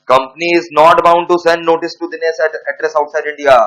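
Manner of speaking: dictating word by word to students; slow dictation. Acted. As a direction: spell it out slowly for the class to write down. Dictating the answer.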